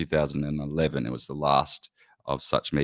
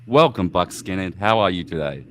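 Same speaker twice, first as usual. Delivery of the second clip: "Welcome" called out louder, grand host opening; bold welcome; 5 dB louder than usual. Shown as a demonstration. Host restarting the greeting to a new guest, louder and grander. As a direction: boom the welcome like a showman. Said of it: "let me try this again".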